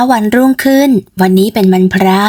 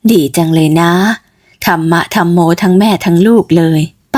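put-on old auntie. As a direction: greet the neighbour girl like a kindly aunt. Aunt Tim talks. (ป้าติ๋มทักหนูเกด เสียงต่ำแบบหญิงสูงวัย)

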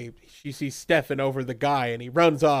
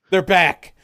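excited cheer; 4 semitones higher, 7 dB louder than usual. Real, not acted. Echoing the cheer.

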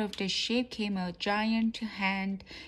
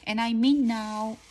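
louder, insistent police order; called out; 6 dB louder than usual. A narrator's reading. Pretend policeman insists that robbers stop, louder called order. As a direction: call it firmly, with more force. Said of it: "called the officer Floppy".

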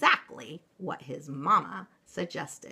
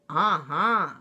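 trembling; 5 dB louder than usual. Acted.

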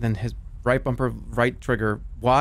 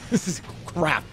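imitating Dad; 2 semitones higher, 4 dB quieter than usual. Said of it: "That's what Dad says".

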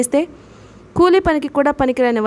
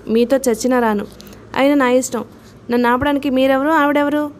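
plain reading voice

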